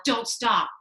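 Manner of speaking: yell. A narrator's reading. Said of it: "would yell".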